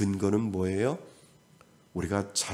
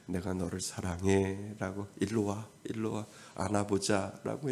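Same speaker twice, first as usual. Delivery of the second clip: a soft, tender call to come close; tender God; 5 dB quieter than usual. Acted. God calls a crying believer into a hug, softly. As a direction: coax a crying child into your arms.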